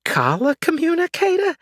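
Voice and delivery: put-on high, crotchety old lady; cranky old woman. Old neighbor ranting about the witch, high and crotchety. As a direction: rant like a suspicious old neighbor.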